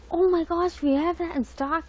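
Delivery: Target lady impression. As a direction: gush like an overeager store clerk. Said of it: "y'all should really know Target lady".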